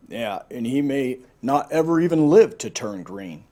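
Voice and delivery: lightly voiced gloomy moan; mild hammed-up moan. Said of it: "Umbles moaned".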